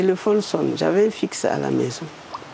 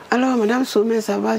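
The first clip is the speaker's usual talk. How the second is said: higher, friendly greeting voice; Prime Minister greeting; 6 semitones higher than usual. Retold or imitated. Woman voicing the Prime Minister greeting her, higher. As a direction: lightly play the jovial Prime Minister.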